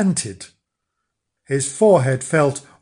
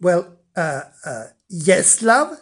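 nervous little man; 3 semitones higher, 4 dB louder, slower than usual. Acted. Flange stalls nervously.

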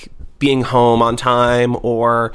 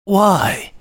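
mock existential cat musing; 2 semitones higher, much slower than usual. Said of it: "Maisie's just kind of like".

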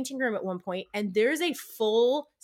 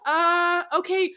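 much higher bewildered reply; high stunned okay; 9 semitones higher, 4 dB louder, slower than usual. Retold or imitated. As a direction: say it dazed. Girl stunned.

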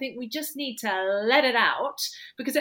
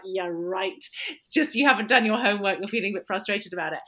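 sarcastic mom. Retold or imitated. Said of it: "resisted the temptation to be like".

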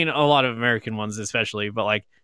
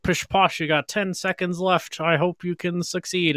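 mock posh British; 6 semitones higher than usual.

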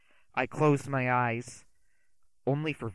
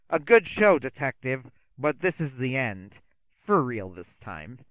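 theatrical magician; 6 dB louder than usual. Acted. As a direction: sweep the words out like a stage magician. Magician's final threat.

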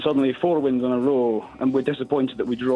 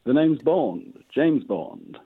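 a lightly voiced suave spy, barely off his own voice; slow, smooth Bond line, only a hint of Connery; James Bond impression; 2 semitones higher, much slower than usual. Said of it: "give us your best Bond".

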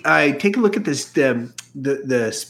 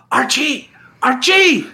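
urgent hushed call up the stairs; whisper yelling; 10 semitones higher, 4 dB louder than usual. Acted. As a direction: call his name in a loud whisper. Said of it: "like, whisper yelling".

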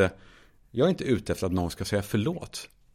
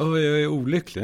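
mock misery; 6 semitones higher, 4 dB louder than usual. Mock self-pity quote.

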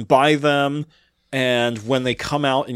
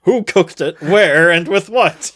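announcer voice; 6 semitones higher, 8 dB louder than usual. Pretend. Game show pitch for Culinary Clue.

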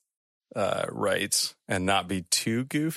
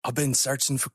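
higher-pitched, halting plea; earnest, raised voice, stumbling; pleading explorer; 5 semitones higher than usual. Acted. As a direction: plead with the creature.

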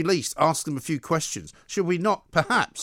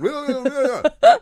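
sped-up voice imitation; 9 semitones higher, 6 dB louder, slower than usual. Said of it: "It just kinda went".

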